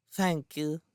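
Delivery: put-on high, sweet, reverent child; devout little boy. A narrator's reading. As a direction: give reverent thanks in a small child's voice. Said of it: "Twinkle said devoutly".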